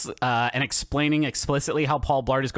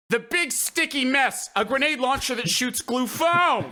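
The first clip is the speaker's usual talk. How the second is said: extremely nervous vendor; 9 semitones higher than usual. Retold or imitated. Vendor showing Paul Blart a glue gun, nervously imitated. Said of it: "Exactly like that".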